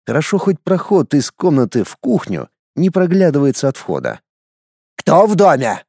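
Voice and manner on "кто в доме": growled demand. Acted. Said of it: "рыкнул первый".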